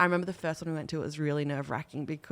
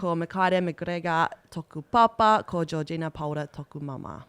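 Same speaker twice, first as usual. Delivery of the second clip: reciting pepeha; 3 dB louder than usual. Shown as a demonstration. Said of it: "put my mum and dad there".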